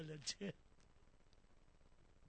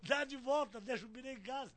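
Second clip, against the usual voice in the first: louder, higher command; retold urgent order; 4 semitones higher, 6 dB louder than usual. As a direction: raise the voice to order a turnaround. Retold order to turn back.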